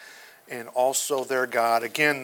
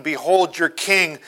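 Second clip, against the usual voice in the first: a touch of scornful sarcasm, slightly louder; mocking; 3 semitones higher, 7 dB louder than usual. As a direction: sneer the title at the crowd mildly. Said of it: "in a mocking tone of voice".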